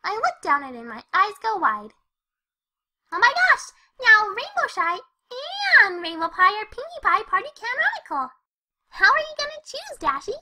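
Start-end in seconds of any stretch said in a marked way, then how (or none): 3.1-10.0 giddy excitement. Acted. Pinkie gushes excitedly.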